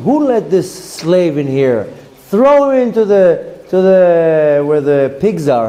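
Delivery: imitating the Rambam shouting at the beggar; retold screaming. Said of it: "started screaming".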